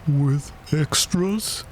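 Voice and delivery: high, drawn-out question; touch of anxious doubt; slightly anxious. A narrator's reading. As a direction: ask slowly, a little worried. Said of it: "a little anxiously".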